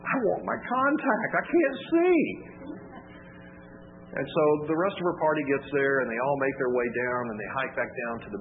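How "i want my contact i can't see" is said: put-on high, slow, pleading whimper of a helpless girl; whimpering whine. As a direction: beg for it like a little child close to tears. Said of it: "my little whimpering whine about my contact".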